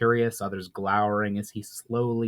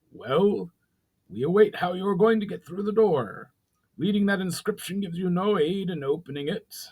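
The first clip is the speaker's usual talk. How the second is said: higher goblin voice, mocking challenge; goblin chief; 8 semitones higher than usual. A narrator's reading. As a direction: dare him to prove it.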